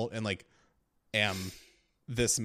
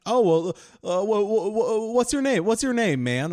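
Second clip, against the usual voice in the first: eager mechanic; 9 semitones higher, 6 dB louder than usual. Retold or imitated. Mechanic Tony voiced in story.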